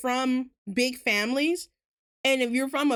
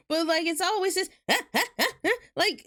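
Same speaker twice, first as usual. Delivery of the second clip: ordinary talk, nothing marked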